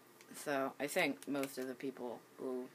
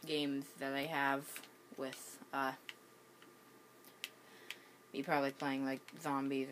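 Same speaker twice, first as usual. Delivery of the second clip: talking with the hiccups. Real, not acted. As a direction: speak through hiccups. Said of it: "sorry that I have the hiccups".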